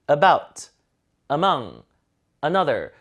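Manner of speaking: About, among, another each with a faint opening schwa; weakened first vowels. Shown as a demonstration. Teacher reading again for students, About, among, another with schwa starts. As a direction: stress the second syllable of About, among, another. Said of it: "다시 한번 읽어드릴게요".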